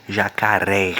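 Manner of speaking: "Jacaré" with an open, stressed final "é". Shown as a demonstration. Teacher showing an accented syllable is open, stressed final "é" in "Jacaré". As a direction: land on the last syllable of "Jacaré", vowel open. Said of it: "A sílaba fica com o som aberto".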